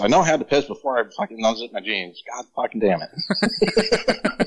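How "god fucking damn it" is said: drawn-out, higher exasperated curse; mock exasperation. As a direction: groan it out slowly like you've lost it. Fumbling for it in the cold.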